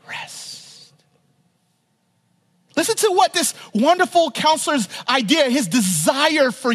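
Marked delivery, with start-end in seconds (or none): 0.1-0.9 a whispered final word, barely voiced; hushed rest. Preacher whispering Jesus' promise of rest to listeners. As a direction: let the last word fall to a breath. Sermon quote ends hushed.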